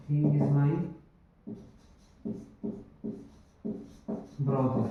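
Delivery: he is my brother spoken very slowly; slow, deliberate teaching example; slow dictation. Shown as a demonstration. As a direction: spell it out slowly for the class. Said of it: "यहाँ पर ये जो is है".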